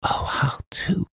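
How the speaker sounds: put-on high, slow, gushing girlish rapture; cry of delight. A narrator's reading. Girl seeing the writer's morning room, slow high delight. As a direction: draw it out high in delighted wonder. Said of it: "with a cry of delight".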